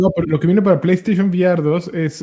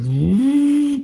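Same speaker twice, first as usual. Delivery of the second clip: eerie hum imitation; 9 semitones higher than usual. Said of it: "nada más oías".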